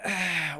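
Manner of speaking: mum's long, soft sigh; unimpressed sigh. Retold or imitated. Mum on phone after son's news, disappointed sigh. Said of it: "I hear this on the other end".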